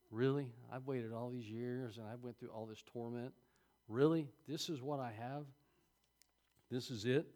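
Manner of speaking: understated, deflated disbelief. Acted. Sarah to herself after years of waiting, quiet disbelief. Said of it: "it was like a disbelief".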